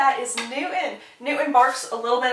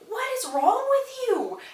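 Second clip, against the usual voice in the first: high-pitched exasperated demand; mock outrage; 13 semitones higher than usual. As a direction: imitate an outraged scolding, pitch shooting up. Anthony outraged at Kate, acted.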